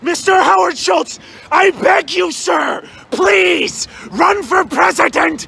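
shouted begging. Acted. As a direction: yell please like you mean it.

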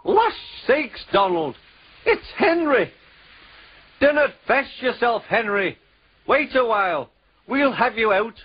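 high-pitched Scottish engine voice; cheery Scottish twins calling out; Scottish accent. Acted.

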